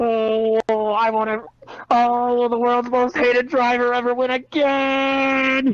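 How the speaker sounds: put-on straining groan. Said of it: "You sounded like you were taking a fucking huge shit at the end there".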